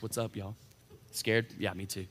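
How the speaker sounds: very soft, low, offhand delivery; casual mock greeting. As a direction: play it comically understated, as if sidling into the group. Voices Jesus casually joining frightened disciples.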